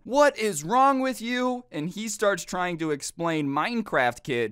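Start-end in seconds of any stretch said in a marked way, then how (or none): 0.0-1.6 high, slow, outraged shout from a car; mock angry yell. Driver whose window was hit yells at the kid, high slow outraged shout. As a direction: bellow it like a furious driver.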